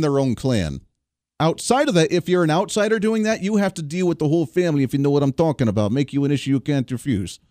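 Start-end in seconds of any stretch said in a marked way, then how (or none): 5.9-7.4 barely shifted mock Italian mob boss accent; understated, hammy Italian gangster accent; terrible Italian accent. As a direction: lightly mimic a Godfather-style Italian accent. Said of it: "it's a terrible accent, but I try".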